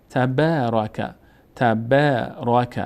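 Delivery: تبارک read slowly with the long a held; slow teacher reading of تبارک; slow recitation. Shown as a demonstration. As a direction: repeat تبارک slowly for the class.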